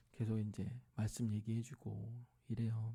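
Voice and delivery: usual speaking voice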